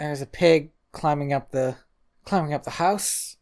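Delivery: deadpan, weary line reading; weird tired delivery. Retold or imitated. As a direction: say it flat and tired, oddly detached. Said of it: "he sort of delivers it like that in that sort of weird, tired way I just delivered it".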